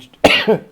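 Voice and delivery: short strained cough; a sharp cough mid-sentence; choking cough. Real, not acted. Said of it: "I'm choking to death".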